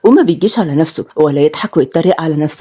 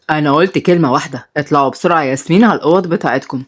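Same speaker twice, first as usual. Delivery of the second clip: lower, scolding father voice; stern father; 6 semitones lower than usual. Acted. The minister scolds his twins, lower and stern. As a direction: lecture the kids from above. Father orders kids away.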